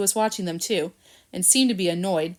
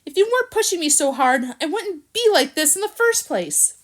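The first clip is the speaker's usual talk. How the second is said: quavering; 8 semitones higher than usual. A narrator's reading. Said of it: "her voice quavering".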